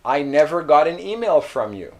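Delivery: "I never got an email" with never pushed; firm denial, never stressed. Shown as a demonstration. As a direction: lean on never, flat fall at the end. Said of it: "why did I say never".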